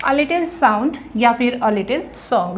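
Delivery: drawn-out, word by word; slow dictation. Shown as a demonstration. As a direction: give it slowly so they can write. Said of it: "teacher dictates the answer".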